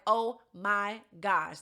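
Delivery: slow, word by word, in dismay; drawn-out dismay. Retold or imitated. Natalie sees the two people she least wanted to see, drawn-out dismay. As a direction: stretch each word out in mock dread. Voices Natalie's dread at seeing them.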